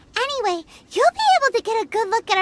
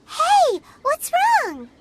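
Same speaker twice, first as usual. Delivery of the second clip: sudden concerned question, pitched up; worried call; 4 semitones higher, much slower than usual. Acted. Paimon asks a faltering Kunjun, alarmed and concerned. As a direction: catch him as he falters.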